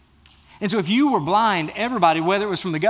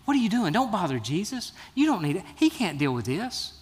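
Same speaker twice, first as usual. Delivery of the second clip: hushing rebuke. Acted. Crowd to blind beggar, trying to quiet him down. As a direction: shoo him away from bothering the teacher. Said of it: "tried to quiet him down".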